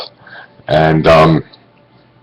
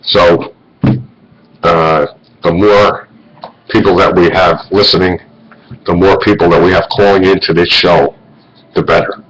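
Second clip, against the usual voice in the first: talking around a cigarette; words round a lit cigarette; cigarette in mouth. Real, not acted. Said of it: "I gotta have a cigarette here".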